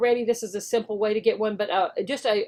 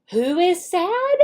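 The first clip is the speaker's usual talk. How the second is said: slow teacher question; 5 semitones higher than usual. Shown as a demonstration. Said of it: "teacher acts out the lesson".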